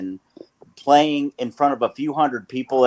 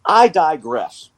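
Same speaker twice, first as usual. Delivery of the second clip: slow, deliberate "I digress"; drawn-out digression; 3 semitones higher, 3 dB louder, slower than usual. Real, not acted. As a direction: stretch it out with emphasis. Mock-grand return to the topic.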